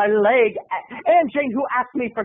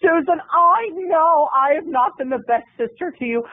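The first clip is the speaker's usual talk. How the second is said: pleading aunt; 2 semitones higher than usual. Retold or imitated. Aunt promises her sister she'll watch the house. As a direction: sell the promise, a bit too sincerely. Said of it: "Aunt Jane came ... and said".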